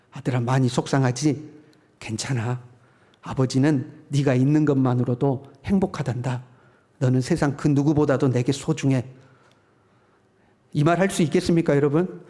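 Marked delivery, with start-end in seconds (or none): 0.1-9.1 put-on a loving dad consoling his boy; tender father. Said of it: "모범 답안은 이렇습니다".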